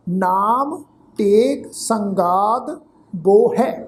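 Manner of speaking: very slow recital, each word drawn out; slow scripture recitation. Real, not acted. Teacher repeating the verse for the sangat, very slow. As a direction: recite syllable by syllable for the class to follow.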